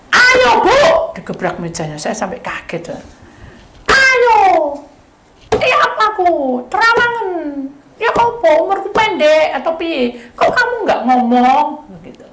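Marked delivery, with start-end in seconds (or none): 0.1-1.1 bentak tinggi dan keras; bentakan marah. Retold or imitated. Menggebrak meja. 3.9-11.7 teriakan tinggi dan keras; desakan marah. Retold or imitated. Menggebrak meja, mendesak.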